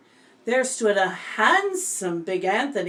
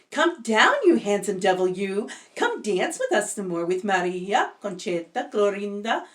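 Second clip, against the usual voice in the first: crying out. Acted. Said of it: "they cried".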